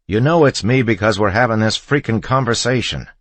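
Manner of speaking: high, loud, fed-up retort; husband losing patience with his wife; exasperated shout. A narrator's reading. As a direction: snap back in frustration.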